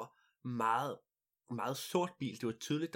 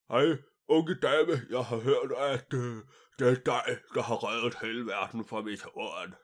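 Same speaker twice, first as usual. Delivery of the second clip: pompous king; 6 dB louder than usual. Acted. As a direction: boom like a huge self-important king. King of the world speaks.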